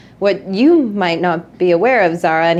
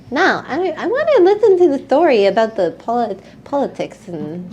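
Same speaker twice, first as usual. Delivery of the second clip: put-on higher pleading kid voice; a hint of a whiny kid; 4 semitones higher than usual. Monty begs to stay and listen, lightly voiced child. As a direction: beg to stay like a small child.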